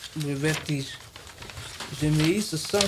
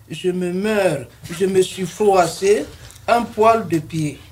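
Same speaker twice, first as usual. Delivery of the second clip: overacted death scene. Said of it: "Tu surjoues".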